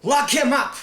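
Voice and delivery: high, loud barked command; commanding order. Acted. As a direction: order the guards to seize him. Deus orders prisoner locked up.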